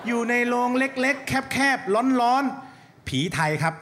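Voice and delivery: slow, high mocking voice; mocking drawl. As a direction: drag it out, taunting. Mocking the vampire's coffin.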